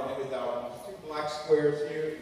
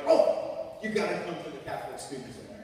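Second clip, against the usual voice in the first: eager invite. Retold or imitated. Old friends urging him.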